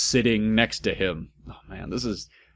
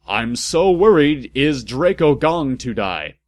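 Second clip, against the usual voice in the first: breathy whispered worry, a bit louder; worried whisper; 3 semitones higher, 5 dB louder than usual. Acted. Ebony whispers her fear for Draco, worried. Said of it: "I said in a worried voice".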